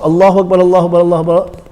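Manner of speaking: Allahu Akbar repeats run together quickly; no stop between. Shown as a demonstration. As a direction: chain every Allahu Akbar without a pause. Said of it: "all the way till there".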